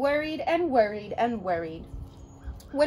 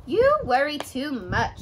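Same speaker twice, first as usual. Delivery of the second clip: slow, lightly raised mother's voice; slow mother's chiding; 4 dB louder than usual. Acted. Mother to her worrying daughter, slow mild chide. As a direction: draw it out like a patient mum. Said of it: "said her mother".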